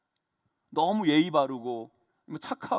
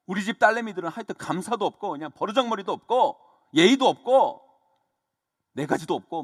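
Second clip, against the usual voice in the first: mildly angry mock telling-off, louder in bursts; retold scolding; 4 dB louder than usual. Dad retelling how he told off his daughters, mild scolding. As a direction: imitate a fed-up dad scolding. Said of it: "그래서 제가 막 야단쳤어요".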